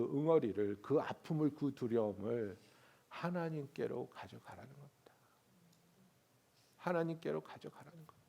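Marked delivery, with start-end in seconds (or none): 3.1-5.1 breathy hushed whisper. Shown as a demonstration. Preacher urging the congregation, hushed whisper. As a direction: whisper it as a secret. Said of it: "whispered then repeated".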